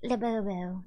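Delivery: put-on rough go at a European accent; attempted European accent. Imitating a TikTok girl showing off her Labubu, attempted European accent. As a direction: try a European accent, not quite landing it. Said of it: "I can't do the accent".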